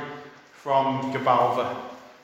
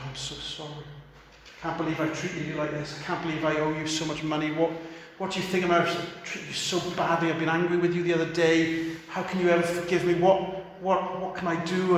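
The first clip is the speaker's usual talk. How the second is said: breaking down; 4 dB quieter, faster than usual. Acted. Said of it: "He breaks down".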